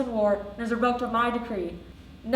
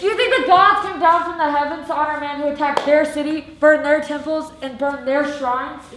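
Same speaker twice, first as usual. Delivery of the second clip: angry rebuke; 2 semitones higher, 5 dB louder than usual. Acted. King berating the soldier.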